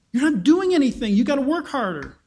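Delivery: a pharaoh barking orders at lazy slaves; mock Pharaoh scolding.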